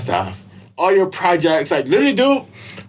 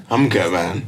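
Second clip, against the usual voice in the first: lower, winded after a sigh; mock out of breath; 11 semitones lower than usual. Telling a friend he's fine while winded, mock breathless. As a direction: play it spent and breathless, lightly. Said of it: "I'm out of breath".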